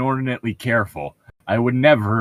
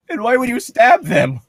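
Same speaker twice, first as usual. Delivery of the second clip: higher, louder disbelieving question; incredulous question, pitched up; 12 semitones higher, 5 dB louder than usual. Real, not acted. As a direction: ask it amazed and amused. Incredulous at friend's stabbing logic.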